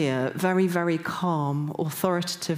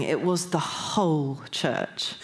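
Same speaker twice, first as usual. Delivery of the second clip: "whole" stretched out slowly for contrast; slow right down on "whole"; stress on WHOLE; slower than usual. Shown as a demonstration. Stressing not just some of us, weight on "whole". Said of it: "it wasn't just some of us".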